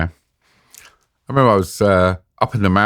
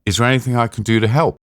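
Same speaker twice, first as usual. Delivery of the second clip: cheerfully naive; 4 semitones higher, faster than usual. Retold or imitated. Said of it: "you hear me saying".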